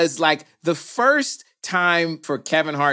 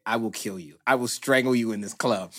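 lower, softer, menacing; low mock threat; 6 semitones lower, 6 dB quieter than usual. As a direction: threaten him through your teeth. Quiet threat to Kevin.

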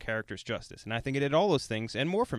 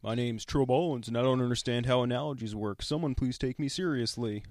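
slowed-down mocking impression of a co-host; lightly put-on voice, dragging the words; Trill Ballins. Host mocking his co-host's bad analogy, mock impersonation. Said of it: "That's my impersonation of you".

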